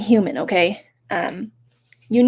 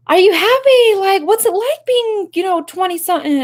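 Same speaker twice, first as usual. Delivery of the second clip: put-on much higher, louder little-girl voice; younger self voice; 11 semitones higher, 4 dB louder than usual. Younger self asks grown-up you, in a high little-girl voice. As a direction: ask it like your curious four-year-old self. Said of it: "and she's like".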